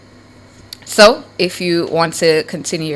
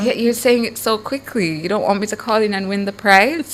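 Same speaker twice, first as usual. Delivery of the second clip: higher-pitched, playful complaint; mock indignant protest; 4 semitones higher, faster than usual. Listener accusing radio host of rushing, mock indignant. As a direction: keep up the teasing objection. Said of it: "I'm like".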